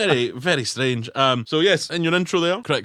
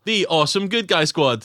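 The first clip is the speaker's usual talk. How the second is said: put-on a touch of an eager child, raised pitch; lightly voiced excited seven-year-old; mock kid naming; 4 semitones higher than usual. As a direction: play a kid inventing a team name. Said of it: "say to, like, a seven-year-old child".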